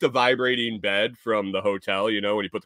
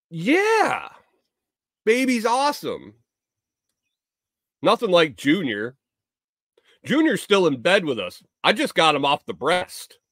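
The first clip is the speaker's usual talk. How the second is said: high-pitched mock Tennessee twang; put-on Tennessee accent, pitched up; Tennessee backwoods woman; 6 semitones higher than usual. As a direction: imitate a Tennessee mother straight out of the backwoods. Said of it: "She drops the Tennessee bomb next".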